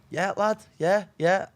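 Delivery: high, loud, pretending to be interested; fake-keen shout. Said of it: "he's shouting down".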